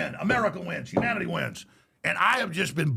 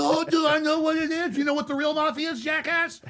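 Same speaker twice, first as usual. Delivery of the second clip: scornful comeback; 9 semitones higher than usual. Retold or imitated. He snaps back at the mobster, sarcastic higher retort. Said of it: "And I'm like".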